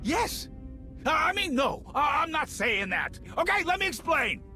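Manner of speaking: high, panicky stammered excuse; flustered backpedalling. Acted. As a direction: scramble to take it back in a high voice. Caught out, backpedals before boss.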